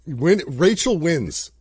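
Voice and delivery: slow, drawn-out announcement; hammed-up slow verdict; mock proclamation. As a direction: declare it like a defeated game host. Mock announcing Rachel's victory.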